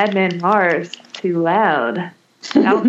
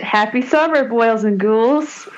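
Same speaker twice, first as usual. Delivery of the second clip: jack o lantern voice; 3 semitones higher than usual. Acted. Spooky horror-host greeting.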